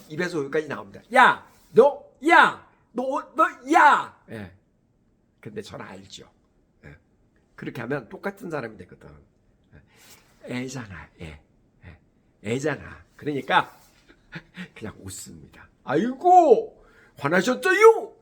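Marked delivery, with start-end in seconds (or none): 1.1-4.2 loud, higher, drawn-out "야, 너" shouting; angry yell. Retold or imitated. Teacher snapping back at a sassy kid, loud angry yell. 15.8-18.1 higher and louder, slow mock-concerned "아이고"; playful teasing. Teacher teasing a fuming student, playful mock concern. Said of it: "그러고 장난으로".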